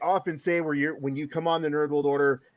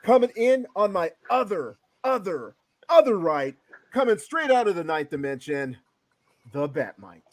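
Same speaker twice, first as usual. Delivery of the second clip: ring announcer intro; 3 semitones higher than usual. Pretend. Host introducing the last guest, mock ring announcer.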